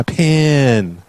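"pin" said with a short i; pin vowel. Shown as a demonstration. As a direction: say "pin" with the short i, not the e of pen. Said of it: "It's pronounced pin".

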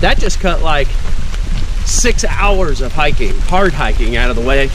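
breathless after running; panting through the words; out of breath. Real, not acted. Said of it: "Sorry, I'm out of breath".

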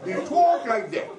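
mock posh English accent; 上流階級の気取った英語の真似. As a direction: talk like an exaggerated English toff. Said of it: "so bloody posh they can barely speak English".

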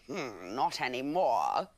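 crocodile voice. Acted. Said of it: "said the crocodile".

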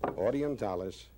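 magic words, high and hammy; kids party magician. Pretend. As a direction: proclaim the spell with a flourish. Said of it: "I say the magic words".

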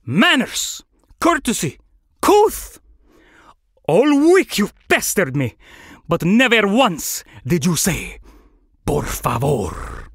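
haughty scolding, high cries sinking to a slow finish; indignant flamingo, climbing then drawing out the last words; affronted flamingo. Acted. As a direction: lecture an ill-mannered bird in a put-on voice.

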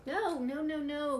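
high, loud protest; crying out. Acted. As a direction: stop them all, loudly. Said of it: "cried Rooster".

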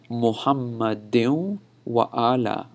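slow "Muhammadin wa ala" with wa apart from ala; separated vowels. Shown as a demonstration. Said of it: "I'm not connecting the vowels there".

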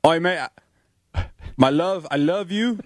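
a lightly done British bloke, fast at the end; hammed-up Cockney lover; mock British accent. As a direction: play a punch-drunk British boxer. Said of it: "What would it sound like if he were British?".

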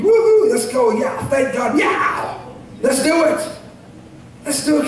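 sudden high whoop of praise, then trailing off; excited whoop. Pretend. Preacher showing the church a joyful shout, excited whoop. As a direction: cheer like you've just caught fire at the altar. Acting out excited worship at altar.

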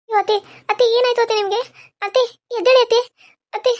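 urgent, hurried cries to wake her; panicked calling. Acted. Daughter-in-law begs fainted mother-in-law to wake, panicked. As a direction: shake her awake in a panic.

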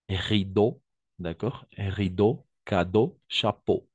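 "Rideau, cadeau, chapeau" each ending on a clear closed O; o sound demo. Shown as a demonstration. Teacher modelling "Rideau, cadeau, chapeau" with pure O. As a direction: model the final eau as a pure O for the class. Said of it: "on va prononcer de la même façon O".

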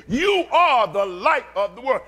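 high, loud chest-driven proclamation; emphatic, from the chest. Acted. Preacher voicing Jesus to the congregation, emphatic shouted declaration. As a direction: belt it out with total conviction. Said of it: "He's saying it with his chest".

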